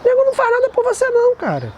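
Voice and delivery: rising to a high exclaim; emphatic friend. Retold or imitated. Nicola warning Gerson about Italy, rising high and emphatic.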